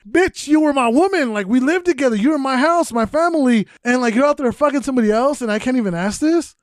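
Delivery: retold indignation. Boyfriend firing back at the girlfriend who cheated, indignant. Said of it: "I was the one that got mad".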